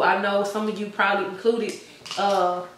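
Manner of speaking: breathless, talking between breaths; winded, pushing words out. Real, not acted. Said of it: "I'm out of breath".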